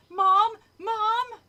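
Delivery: loud, high call for mom; shouted call. A narrator's reading. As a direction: call out through the house for your mother. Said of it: "I shouted into the house".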